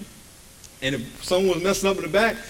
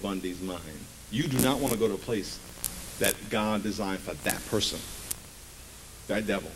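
low, grave warning; 7 semitones lower, 7 dB quieter than usual. Acted. Pastor warning the church about hell, low and slow. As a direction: drop low and slow, deadly serious.

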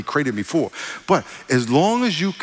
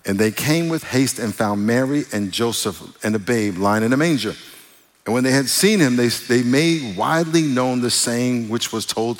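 measured, even Bible reading voice; scripture reading; 2 semitones lower than usual. Acted. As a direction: read the passage with reverence.

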